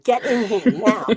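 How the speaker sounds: put-on loud, urgent order to the kids; urgent teacher command; urgent call. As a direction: snap them inside fast. Teacher calling kids into lockdown.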